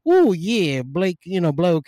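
playful attempt at an Aussie accent; rough mock-Australian twang; Australian accent caricature. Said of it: "doing a caricature of it".

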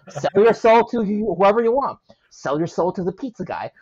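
laughing, lightly hammed-up sales pitch; infomercial voice. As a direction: pitch it like a late-night ad. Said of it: "in your best infomercial voice".

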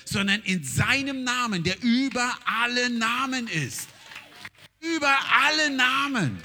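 full-force preaching. Acted. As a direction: preach it out with authority.

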